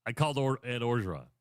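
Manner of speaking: lightly voiced imitation of the coach; a hint of a mock coach voice. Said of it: "channel the former guy".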